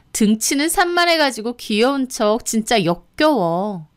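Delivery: venomous, disgusted scorn; contemptuous tirade. Acted. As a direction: tear into someone you despise. Sister-in-law spits out her hatred.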